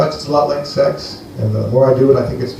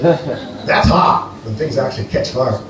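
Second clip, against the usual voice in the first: slow punchline; 3 dB quieter, slower than usual. Acted. Punchline about Greek heat.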